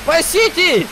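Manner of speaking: over walkie talkie. Pretend. Shouting into the radio.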